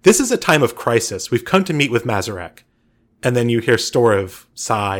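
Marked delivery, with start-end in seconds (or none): 0.0-2.6 a woman rushing in with urgent news. Acted. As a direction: press it like there's a crisis. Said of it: "a much more urgent woman's voice".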